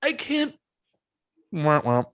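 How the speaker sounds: fake-cry it, whining like a baby; mock crying. Joking about his own handwriting, a mock baby wail.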